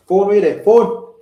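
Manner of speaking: loud, high call for something missing. Real, not acted. Host hunting for a phone mid-show, loud call. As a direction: call sharply across the room.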